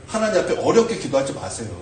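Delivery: ordinary talk, nothing marked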